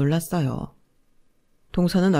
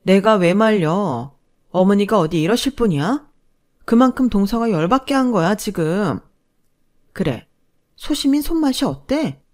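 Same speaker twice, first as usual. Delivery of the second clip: mocking taunt; 3 semitones higher, 4 dB louder than usual. Narrator taunts sister-in-law.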